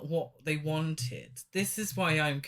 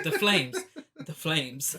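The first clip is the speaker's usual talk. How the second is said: mock intense; 4 dB louder than usual. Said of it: "it's so intense that he repeats everything twice".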